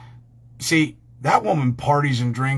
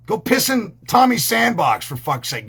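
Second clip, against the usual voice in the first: put-on yelling at kids; 6 semitones higher than usual.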